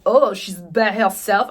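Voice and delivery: lightly voiced gossiping onlooker; mock judgmental onlooker. Onlookers judging a lone diner, mock scandalized.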